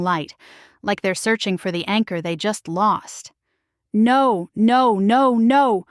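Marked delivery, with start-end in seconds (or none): 3.9-5.9 louder, frantic shriek. Acted. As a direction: shriek it as all is lost. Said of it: "Sean shrieks".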